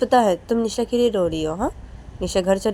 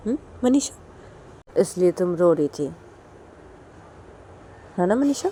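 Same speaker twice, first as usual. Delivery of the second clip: teasing mother. Acted. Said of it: "तो तभी मनीषा की बोलती कि".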